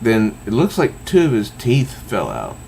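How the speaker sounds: plain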